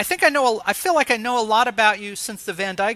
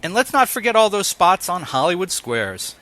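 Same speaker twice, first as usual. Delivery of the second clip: a stage whisper aside; playful whisper. Acted. Host slipping listeners a whispered aside. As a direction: whisper it like a little secret.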